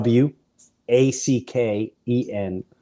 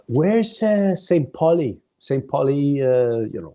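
asking around; 3 semitones higher, slower than usual. Retold or imitated. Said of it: "we're asking everywhere".

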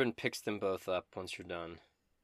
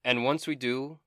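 high, loud and theatrical; Dobin, eager bard; 4 semitones higher, 6 dB louder than usual. Acted. Dobin bragging about dragon slaying, high and loud. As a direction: ham up the vainglorious bard.

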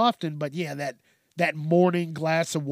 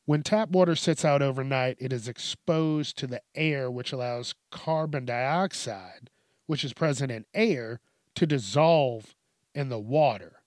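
reading aloud; 3 semitones lower than usual. Real, not acted. Reading a health article to viewers, careful read-aloud. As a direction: read the quote out deliberately. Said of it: "read this verbatim".

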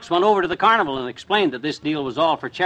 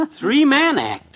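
laughing disbelief; 7 semitones higher, much slower than usual. Acted.

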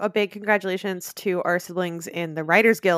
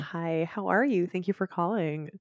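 a light, softer phone-answering voice; unhurried, polite thanks to a caller; 6 dB quieter than usual. Shown as a demonstration. Host mimicking answering a call, soft phone voice. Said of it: "it's your phone voice".

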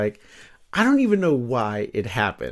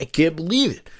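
higher, louder, stunned fan voice; mock amazed viewer; 8 semitones higher, 4 dB louder than usual. Future kid watching the riot footage, mock amazed. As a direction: gush like a kid spotting a movie star.

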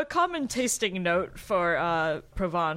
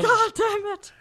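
loud, high exasperated curse; mock frustration; 7 dB louder than usual.

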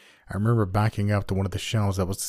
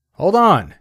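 dad's yell, much higher and louder; 11 semitones higher, 10 dB louder than usual. Acted. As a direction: shout it through the door like a startled father. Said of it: "my dad's voice yell from the other side".

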